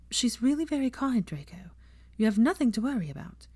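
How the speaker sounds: lightly voiced Hermione soothing a nervous friend. Hermione reassuring nervous Draco, lightly voiced.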